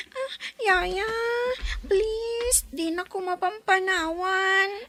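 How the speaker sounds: crying, begging the nanny to stay; child sobbing please; tearful pleading. Acted. Child begs her nanny not to leave, crying.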